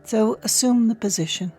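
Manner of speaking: calm, unhurried meditation voice with long pauses; guided meditation. Real, not acted. Podcast host guiding listeners to settle into awareness, calm meditation voice. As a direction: lead them gently inward, leaving space between phrases.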